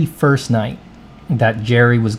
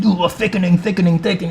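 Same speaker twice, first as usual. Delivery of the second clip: a hint of raised-voice alarm; alarmed groan; 7 semitones higher, faster than usual. Owner noticing his muscles thickening, mildly alarmed. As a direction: croon it in mild dismay. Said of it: "he's like".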